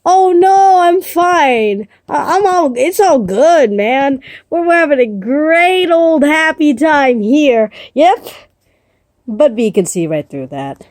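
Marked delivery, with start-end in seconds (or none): 0.0-8.3 nervous fake cheer. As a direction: cover the panic with chirpy reassurance. Spot nervously pretends all is fine.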